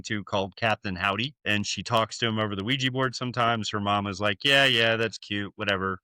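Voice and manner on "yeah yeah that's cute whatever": mildly dismissive, unbothered mother; dismissive mom. Retold or imitated. Mother humoring her daughter about her imaginary friend, mildly dismissive. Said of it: "Doesn't really think anything about it".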